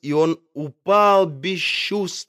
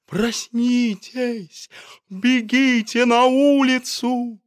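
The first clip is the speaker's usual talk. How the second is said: high, urgent shout to wake everyone; shouting warning in a fire; doctor shouting; 9 semitones higher, slower than usual. A narrator's reading. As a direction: call out to the sleeping house, much higher. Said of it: "кричал доктор".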